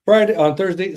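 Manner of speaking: breathless, catching his breath. Real, not acted. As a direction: talk while still winded. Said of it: "I'm out of breath".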